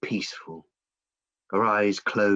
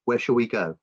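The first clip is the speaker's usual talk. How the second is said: giving in; 6 semitones higher than usual. Acted. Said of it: "Eventually she says".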